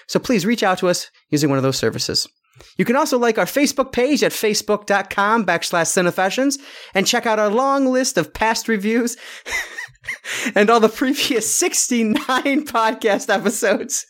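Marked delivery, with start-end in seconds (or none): 2.8-14.0 laughing while being tickled; giggling through the read. Real, not acted. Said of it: "I'm tickling him right now".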